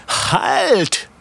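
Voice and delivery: a high, sharp call to stop; shouted halt. A narrator's reading. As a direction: yell at them to halt from the saddle. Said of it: "schrie er".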